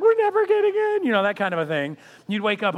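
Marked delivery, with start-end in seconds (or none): 0.0-1.0 put-on high, loud wail of a kid who'll never get in; despairing child wail. Child dreaming of Disneyland, high loud wail. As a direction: cry it out like a child stuck in a nightmare. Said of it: "You're like".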